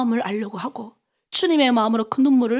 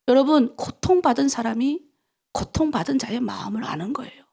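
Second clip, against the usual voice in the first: ordinary talk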